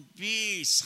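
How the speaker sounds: brash confident twenty; bold answer. Retold or imitated. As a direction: proudly announce the grade. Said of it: "شهامت گفت".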